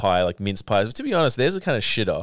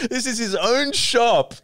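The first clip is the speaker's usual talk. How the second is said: incredulous; 11 semitones higher, slower than usual. Real, not acted. Incredulous slow remark.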